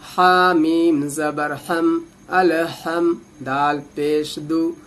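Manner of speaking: deliberate syllable-by-syllable spelling; slow letter spelling. Shown as a demonstration. Teacher spelling Fatiha letters for adult learners, slowly.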